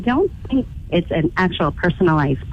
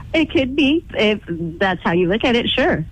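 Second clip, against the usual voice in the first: stifling laughter; 2 semitones higher than usual. Real, not acted. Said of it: "It sounds like you're laughing at me".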